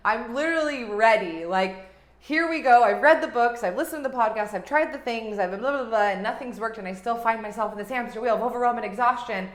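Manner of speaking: loud and pumped, laughing in, ready to go; excited, fired-up client. Retold or imitated. A fired-up listener ready to sign up, loud and eager. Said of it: "you're like".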